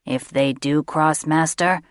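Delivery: a hungry servant beast; creature voice. A narrator's reading. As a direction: creature pressing its master. Creature speaking to master.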